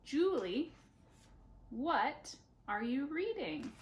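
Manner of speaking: teacher repeating for the class; slow repeat. Shown as a demonstration. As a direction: model it slowly again. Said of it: "Try it again".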